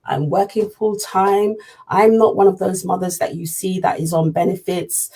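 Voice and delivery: slow, tired pleading to the MP; worried mother voice. Retold or imitated. Mother pleading with the MP, a mildly put-on tired worried voice. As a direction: play up the exhausted struggling mum. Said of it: "with my worries me voice saying".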